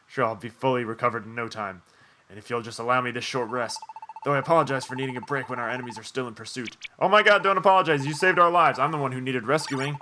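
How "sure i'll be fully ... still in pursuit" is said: softer, lightly voiced courteous dragon; a modest dragon apologizing; polite dragon.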